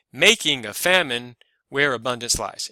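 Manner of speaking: MAK-ing a FAM-ine stressed up front, then regular where a-BUN-dance LIES; shifting verse stress. Shown as a demonstration. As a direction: start on the beat with "Making", settle into iambs. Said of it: "It goes back to normal in the last three feet, but the first two".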